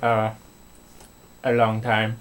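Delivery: put-on half-hearted Indian accent from a street act; imitated Indian accent. Retelling the street performer's act, a light Indian accent. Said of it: "as he was doing an Indian accent".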